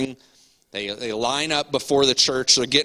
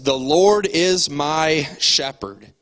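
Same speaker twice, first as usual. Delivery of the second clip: put-on slow, proud, a bit louder, like a shy boy finding courage; bold declaration; 2 semitones higher, 3 dB louder, slower than usual. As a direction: say it boldly, a hint of a child reciting. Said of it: "he just boldly says".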